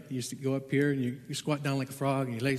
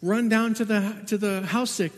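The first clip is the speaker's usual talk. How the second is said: calling out much louder and higher, urgent; retold yell; 6 semitones higher, 4 dB louder than usual. Husband yelling to the boy Tonga for help, urgent loud call. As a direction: shout the order to the boy across the yard. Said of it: "I'm yelling to Tonga".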